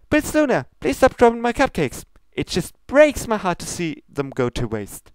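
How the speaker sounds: high, bubbly pony voice, pleading; sweet baker begging her not to waste cupcakes; high Pinkie Pie voice. Acted. Pinkie pleads with Princess Luna, high and bubbly.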